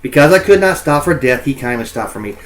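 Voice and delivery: reading the lines aloud like verse; a lightly performed poetry reading; poem reading. Shown as a demonstration. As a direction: recite the opening of the poem. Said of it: "we look at this first one".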